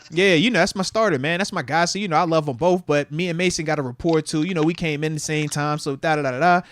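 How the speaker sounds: mock stock athlete answer; cookie-cutter talk. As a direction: play the agreeable media-trained player. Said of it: "You know the cookie cutter talk".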